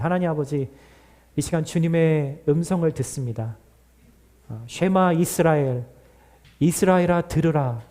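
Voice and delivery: earnest pastoral prayer voice. Acted. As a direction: pray it sincerely over the congregation. Pastor prays before offering. (간절한 대표기도 목소리)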